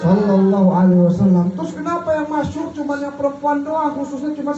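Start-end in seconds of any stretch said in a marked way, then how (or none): 0.0-1.5 blessing on the Prophet. Real, not acted. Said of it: "Nabi besar Muhammad".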